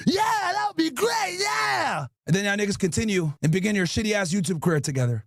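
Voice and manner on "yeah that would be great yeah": mock excited agreement. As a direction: ham up the dim enthusiasm.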